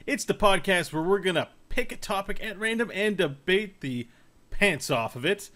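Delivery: slow announcer welcome; podcast host intro. Acted. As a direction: open the show like a host.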